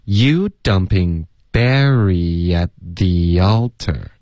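"Barry at the altar" slowly as "Barry-yat thee-yaltar"; careful teacher model with glides in "Barry at the altar"; slow linked model. Shown as a demonstration. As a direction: draw out "You dumping Barry", then link to "at the altar". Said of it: "慢慢地多练习这一段".

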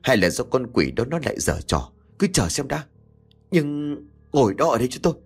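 husband barking at his panicking wife; stern snap. Acted. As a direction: shut her down with a hard order. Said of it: "Ông quát".

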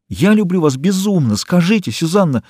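high, urgent declaration of love; passionate plea. A narrator's reading. Eugene to Susanna, begging her, high passionate plea. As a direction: pour it out, pitched high.

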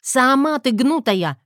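loud, slow angry snap; angry bark. A narrator's reading. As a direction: bark it straight back at her. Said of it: "рявкнула я".

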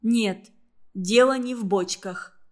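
ordinary delivery, nothing marked

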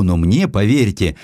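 usual speaking voice

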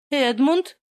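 sharp high cry of alarm. Acted. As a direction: cry his name out in shock. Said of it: "рядом вскрикнула Рэйчел".

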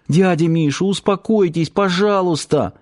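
put-on high, pleading young woman; calm him down, begging; a high anxious plea; pleading girl. Girl pleads with drunk uncle.

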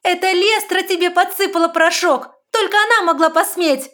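very high, loud cry; desperate shout. A narrator's reading. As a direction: scream the blame at him. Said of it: "Виара прокричала".

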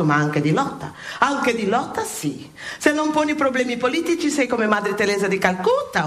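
preaching a sermon with rising fervour; impassioned sermon. Acted. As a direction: preach it, building to a cry of outrage.

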